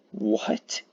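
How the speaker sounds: sudden high what; startled question; surprised. Real, not acted. Surprised reaction.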